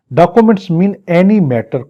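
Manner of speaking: slow, deliberate reading of the definition; slow statute reading. Shown as a demonstration. Teacher dictates the definition of documents very slowly. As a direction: lay out every word of the law.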